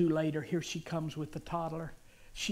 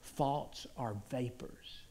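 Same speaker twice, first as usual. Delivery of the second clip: Jesus reassuring; 5 semitones lower, 7 dB quieter than usual. Retold or imitated. Jesus telling Eddie thoughts have no power, softly reassuring. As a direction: lower and hush the voice, measured. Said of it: "And he said this".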